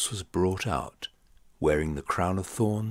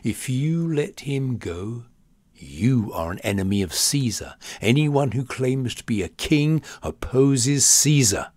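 shouting; 5 semitones higher, 4 dB louder than usual. A narrator's reading. The crowd threatening Pilate with Caesar, shouting. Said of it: "kept shouting".

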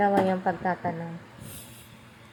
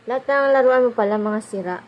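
exasperated scolding; 2 semitones higher, 8 dB louder than usual. Real, not acted. Mother scolding her child about all the broken toys, loudly exasperated. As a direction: raise your voice at the broken toys.

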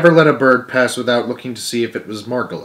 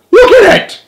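very high, full-out frantic scream; 11 dB louder than usual. A narrator's reading. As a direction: scream it at the top of your voice. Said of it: "He was screaming now".

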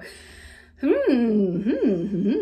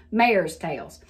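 Southern "Mare's", stretched to "may-erz"; "Mare's tails" with a Southern glide; Southern accent; 4 semitones lower than usual. Shown as a demonstration. Back to her own way after trying non-southerner, Southern accent. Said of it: "how do you say that like a non-southerner".

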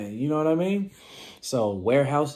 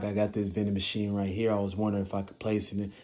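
lazy pitch; 4 semitones lower, 4 dB quieter, faster than usual. Retold or imitated. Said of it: "with a phone like".

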